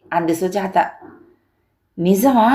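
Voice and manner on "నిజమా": a touch of amazement; astonished. Acted. Husband hearing wife's revelation, mildly astonished. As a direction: ask in understated disbelief. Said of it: "అంటూ విస్తుపోయిన శేషగిరి".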